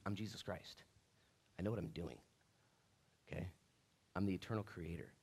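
understated, assured Jesus voice; calm divine authority. Acted. Acts Jesus calmly declaring who he is.

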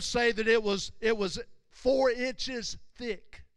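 loud, emphatic sermon delivery; forceful preaching. Real, not acted. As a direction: preach it out with weight on each phrase. Preaches the veil's size.

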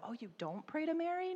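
high, surprised "Oh, you don't pray to Mary?"; surprised question. Retold or imitated. Muslim mom asking the Christian about Mary, surprised. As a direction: ask it with amazement. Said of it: "and so".

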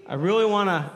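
ordinary talk

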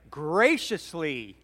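"Graciously" drawn out slowly with a strong first syllable; emphasis on graciously. Shown as a demonstration. Preacher repeating his point to the congregation, "Graciously" slow and emphatic. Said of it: "Let me emphasize that again".

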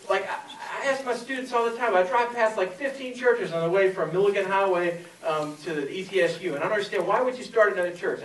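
insistent questioning with a hint of northern accent. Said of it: "She had that kind of northern, um, accent".

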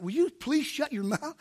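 hushed exasperated inner voice; inner self-talk. Retold or imitated. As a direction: tell yourself off under your breath. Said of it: "I'm talking to myself on the inside".

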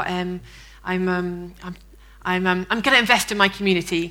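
hesitant, halting hedge with soft starts; non-committal. Acted. Churchgoer avoiding telling a colleague about faith, vague and halting. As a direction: dodge the question with ums and pauses. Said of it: "could have said something really non-committal and vague".

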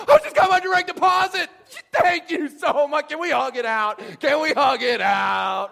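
hammed-up gushing shout, very high; mock overjoyed. Employee runs into boss's office, mock ecstatic gratitude. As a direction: scream your thanks like an ecstatic employee.

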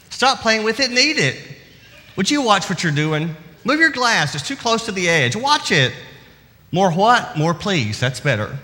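lightly voiced busy mom scolding kids; a hint of a tired parent giving orders; harried mother. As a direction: rattle off a mother's nagging through the day. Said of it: "it would sound like this".

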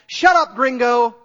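loud, high irritated snap; snapping pilot. Retold or imitated.

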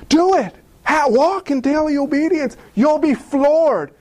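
high, rousing push; excited saints urging us; eager urging. Pretend. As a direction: talk a friend into faith.

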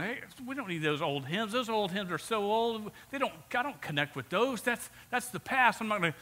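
mildly mock the dismissive younger worship fans; praise song crowd. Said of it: "praise song crowd that's going".

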